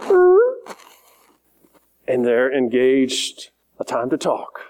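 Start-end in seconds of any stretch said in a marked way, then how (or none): 0.0-0.4 sudden high-pitched "errr"; startled "er" noise. Retold or imitated. Pastor reacting to the young man's answer, high imitated noise. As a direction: let out a short, high held noise. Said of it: "And then I went".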